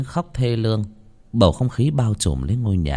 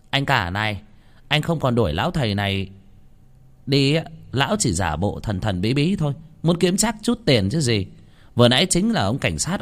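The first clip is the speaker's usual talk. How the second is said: higher, accusing interrogation; aunt accusing her brother-in-law; sharp-tongued aunt; 6 semitones higher than usual. Acted. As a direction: needle the elder brother with suspicion. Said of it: "lại được thể lên giọng".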